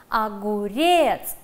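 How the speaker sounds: slow, clear "Огурец" with the stress on РЕЦ; stress on the syllable. Shown as a demonstration. Teacher dictating a word slowly for a spelling test. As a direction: stretch "Огурец" out and land on the last syllable. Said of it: "Ударение на третий слог".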